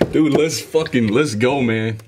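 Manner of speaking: laughing, hyped outburst; excited. Real, not acted. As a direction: burst out with real hype. Hyped reaction to favorite song.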